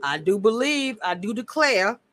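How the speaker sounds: soft, put-on Southern drawl; mock Southern accent, hushed; Southern belle. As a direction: play a genteel Southern lady, softly. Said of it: "and the Southern was".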